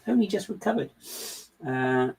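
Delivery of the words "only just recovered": high, theatrical repeat with "only" lifted; mock-dramatic echo. Real, not acted. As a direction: ham up the complaint, pitched way up.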